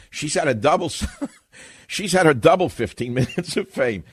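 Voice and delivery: chuckling through the words; laughing through it. Real, not acted. Laughs at own joke.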